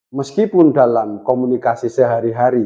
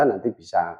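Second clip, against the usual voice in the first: ordinary talk, nothing marked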